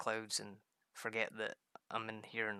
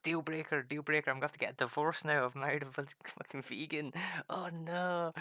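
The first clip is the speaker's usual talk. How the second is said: higher-pitched, hammed-up alarm; mock freak-out; 4 semitones higher, 3 dB louder than usual. Husband fearing divorce over a vegan wife, mock freaking out. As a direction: panic in mock despair. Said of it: "Total freaking out and being like".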